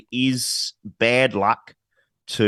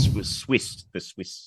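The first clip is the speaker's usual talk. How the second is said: whispered; 7 dB quieter, slower than usual. Real, not acted. Quietly correcting co-host on air.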